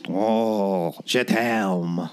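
whisper-sweet French lover; French chef. Pretend. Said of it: "this episode's accent".

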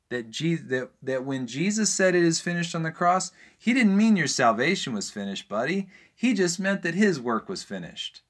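preacher getting worked up, pressing hard. Real, not acted. Preacher to a Catholic friend, heated and worked up. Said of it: "I'm sorry I'm getting worked up".

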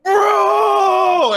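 long, high anguished shout; hammed-up cry of despair; panicked yell. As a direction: wail it out, drawn out and loud. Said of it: "super panicking".

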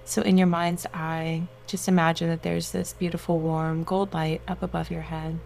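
guided meditation. Acted. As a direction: soothe them into relaxation.

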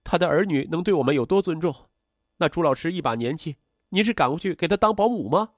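high-pitched, indignant daughter; agitated. A narrator's reading. Daughter challenges mother over the new man, agitated. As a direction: fire questions at mother heatedly. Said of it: "情绪激动".

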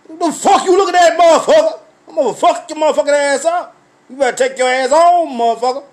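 retold shouting, off-duty rage; angry yell. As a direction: blow up at the starer. Retold yelling at store starer.

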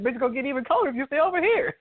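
fast, high, hammed-up snap; tossing off a comic threat; quick high mock scolding; mock cold threat. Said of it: "He said, he said".

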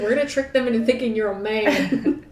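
quoted through laughter; laughing. Retold or imitated. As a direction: giggle through the line. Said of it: "He's like".

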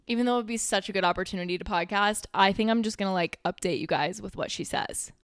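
a little out of breath after the gym. Real, not acted. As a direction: talk while still out of breath. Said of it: "kind of out of breath".

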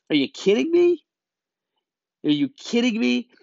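high, loud disbelief; outraged disbelief; incredulous. Real, not acted. Outraged disbelief at friends cut off.

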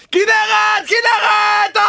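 high full-throated yell of her name; screaming at deaf girlfriend. Acted. Boyfriend yelling at his deaf girlfriend, high shouting. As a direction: scream it as if she could never hear you. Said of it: "כשאני צורח עליה ככה".

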